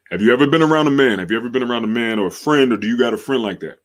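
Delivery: quick rushed delivery; fast. Shown as a demonstration. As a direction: hurry through the words. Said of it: "as fast as possible".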